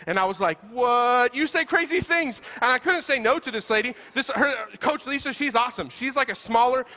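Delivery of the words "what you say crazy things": stunned disbelief. Retold or imitated. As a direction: pitch jumps up on you say crazy things. Retold reaction to coach.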